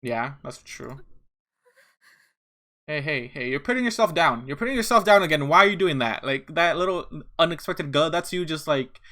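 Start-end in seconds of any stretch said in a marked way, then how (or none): 2.9-6.2 raised, louder exasperated protest; exasperated objection. Real, not acted. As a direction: scold them for self-deprecation. Objects to character putting herself down.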